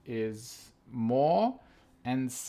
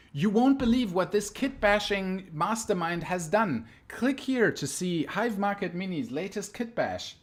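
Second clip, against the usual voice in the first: tabloid tv host; 5 semitones higher, 4 dB louder than usual. Pretend. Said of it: "fantastic clickbait titles".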